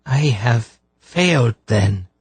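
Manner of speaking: slow, tearful admission of failure; a hooded healer confessing failure through tears; voice filled with tears. A narrator's reading. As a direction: near tears, voice heavy with grief. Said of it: "in a voice filled with tears".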